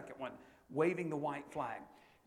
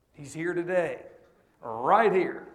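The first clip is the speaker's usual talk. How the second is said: calling out; 13 dB louder, slower than usual. Real, not acted. Preacher points out brother-in-law.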